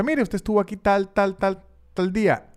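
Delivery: imitando a la novia con tono pícaro, más agudo; voz pícara de quien finge ser el restaurante. Retold or imitated. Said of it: "la oigo ella hablar con una voz pícara". (una pizca de picardía al fingir ser del establecimiento)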